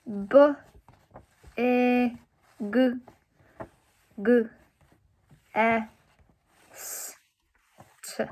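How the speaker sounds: L, U, O, K spoken one letter at a time with pauses; sounding out letters. Shown as a demonstration. Teacher sounding out look for students, letter by letter. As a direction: slide through each letter of look slowly. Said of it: "we're gonna sound it out".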